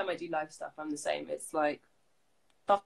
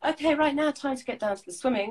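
smooth, composed on-air link; calm presenter voice; 8 semitones higher, 4 dB louder than usual. Shown as a demonstration. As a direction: keep it collected like a pro anchor. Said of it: "you've gotta go calmly".

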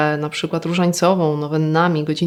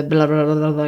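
mock babbling. Imitating charismatics' repetitive gibberish, mock babbling. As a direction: rattle off a run of repeated blahs. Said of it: "polegającym na powtarzaniu ciągłym w kółko".

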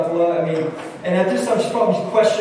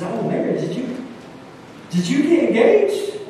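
delighted teacher; 7 semitones higher than usual. Retold or imitated. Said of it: "He says".

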